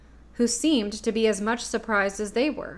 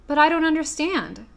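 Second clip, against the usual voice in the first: higher puzzled protest; bewildered; 7 semitones higher, 4 dB louder than usual. A narrator's reading. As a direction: sound baffled. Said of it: "in bewilderment".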